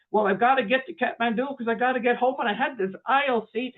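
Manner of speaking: high, lightly acted fluster; a little choked up. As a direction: plead your case, getting a bit worked up. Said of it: "getting a little choked up and getting upset".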